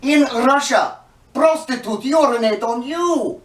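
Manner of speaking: high-pitched, hammed-up Russian accent. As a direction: put on a loud comic Russian accent. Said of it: "a Russian accent, you say".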